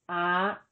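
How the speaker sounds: ah held high, Thai high tone; ah pitched high and slow. Shown as a demonstration. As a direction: lift ah up high. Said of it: "the tone is high, as in".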